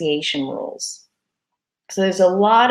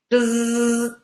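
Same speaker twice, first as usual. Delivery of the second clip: buzzer noise. Shown as a demonstration. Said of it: "That's wrong".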